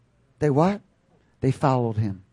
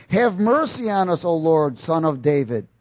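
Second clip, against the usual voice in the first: raised, measured cry for mercy; blind men crying out; 4 semitones higher, 4 dB louder than usual. Acted. Blind men calling to passing Jesus, raised plea. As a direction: read it as a moderately raised plea. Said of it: "cried out, saying".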